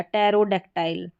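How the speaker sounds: टेरोडेक्टाइल begun on T, no P; silent P. Shown as a demonstration. Teacher showing learners PT, silent P. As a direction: say टेरोडेक्टाइल with the P dropped. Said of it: "पी को हम पढ़ेंगे नहीं".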